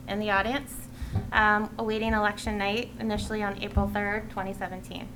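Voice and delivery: measured read-out public statement; prepared speech. Real, not acted. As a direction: deliver a written address to the committee. Reads a prepared committee speech.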